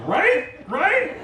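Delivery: bragging to impressed locals in a squeak; proud squeak. Retold or imitated. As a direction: fish for praise in a tiny high voice.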